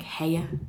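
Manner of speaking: "heya" said with an extra syllable, like hay-uh; Burnley "heya". Shown as a demonstration. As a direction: stretch "heya" into two beats, Burnley style. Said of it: "people would say".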